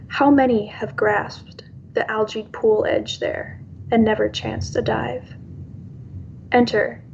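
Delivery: poem reading. Acted. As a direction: let each line land, unhurried. Reads her own poem.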